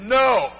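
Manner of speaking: firm, drawn-out "No"; one weighty "No", set apart by pauses; emphatic refusal. Retold or imitated. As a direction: stand your ground on "No". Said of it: "Very emphatic".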